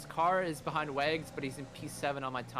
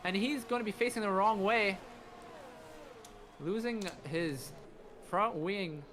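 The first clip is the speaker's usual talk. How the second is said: excited; 6 semitones higher than usual. Real, not acted. Crash called live.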